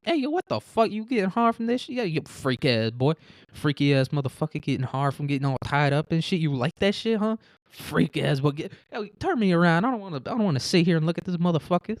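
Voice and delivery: high-pitched teasing security guard voice; mock security guard. Security guard taunts the hostage, high mock jeering. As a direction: jeer at him in a high mock voice. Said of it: "he's gonna be like".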